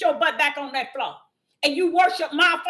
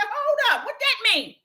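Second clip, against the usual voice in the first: surprised question; 7 semitones higher than usual. Retold or imitated. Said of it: "I said".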